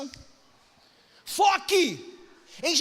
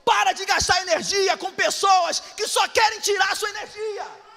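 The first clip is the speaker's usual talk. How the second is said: loud, drawn-out exhortation; slow shouted sermon climax; preaching shout; 7 semitones higher, 4 dB louder, slower than usual. Acted. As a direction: hammer home the call to focus.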